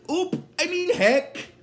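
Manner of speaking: startled high-pitched self-correction; Bender. Retold or imitated. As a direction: jump up in pitch, hastily correcting yourself. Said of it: "he gets a little shocked by that".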